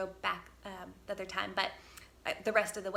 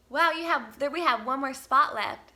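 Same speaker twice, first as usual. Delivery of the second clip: a touch higher and louder, lightly voiced cheerful clerk; excited discovery; 4 semitones higher, 8 dB louder than usual. Campsite lady tells campers a spot is left, mildly excited. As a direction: announce the good news brightly.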